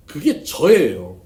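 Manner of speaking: slow, loud stress on 저예요; emphatic confession. Real, not acted. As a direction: land 그게 저예요 slowly and hard. Confessing his old temper. (느리고 크게 힘주어 고백하듯)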